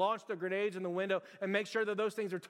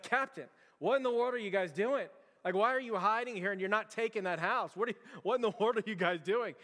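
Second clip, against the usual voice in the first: acted general challenging the captain, raised pitch; indignant demand; 3 semitones higher than usual. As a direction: demand answers in mock disbelief. Acted general confronting a hiding captain.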